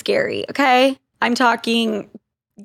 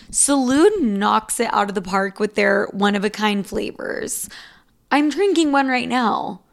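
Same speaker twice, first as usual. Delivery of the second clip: a hint of a soft podcast ad read; 3 semitones lower, 3 dB quieter than usual. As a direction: read the sponsor spot lightly. Host reads sponsor ad.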